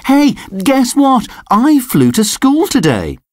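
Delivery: high, eager announcement; little dog bragging to his class, high and eager; excited pup. A narrator's reading. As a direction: burst out with big news. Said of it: "Sid said".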